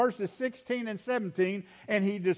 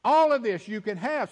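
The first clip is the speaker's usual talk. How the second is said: voicing God; 5 semitones higher than usual. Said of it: "That's the emphasis in God's command".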